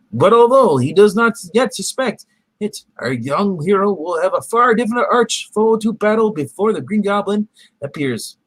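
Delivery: dramatic comic book narrator; story narration. Acted. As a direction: narrate like an old cartoon.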